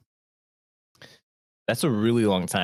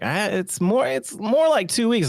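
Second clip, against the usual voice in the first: imitated correction; 9 semitones higher, slower than usual. Retelling Caitlin correcting the speaker.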